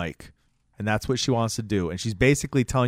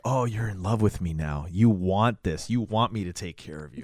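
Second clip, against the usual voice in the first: lightly hammed-up come-on, lower and softer; mock seductive; 4 semitones lower, 4 dB quieter than usual. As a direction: tease it like a smug flirt. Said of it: "Doesn't mean, like".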